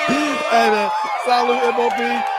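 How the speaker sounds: shouted, drawn-out hey man; loud greeting. Shown as a demonstration. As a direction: belt it out as a call. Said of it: "Let me do it one more time".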